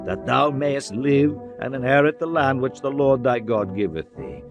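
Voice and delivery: ordinary delivery, nothing marked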